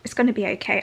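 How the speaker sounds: firmer, composed reassurance; steadier reassurance. Real, not acted. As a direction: pull yourself together and mean it. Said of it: "I had a moment".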